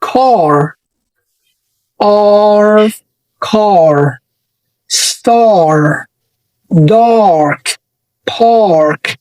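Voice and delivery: "car" said with a long open ah; American long ah vowel. Shown as a demonstration. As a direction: stretch the ah in "car", "star", "dark", "park". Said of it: "زي كلمة".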